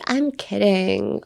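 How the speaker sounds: "I'm kidding" drawn out slowly, playful; joking. Shown as a demonstration. Teacher showing the just-joking energy, drawn out. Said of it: "冗談だよのテンション".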